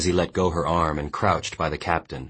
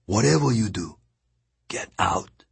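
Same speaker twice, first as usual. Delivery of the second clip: put-on old captain's urging; 5 semitones higher than usual. A narrator's reading. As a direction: press the boy to flee.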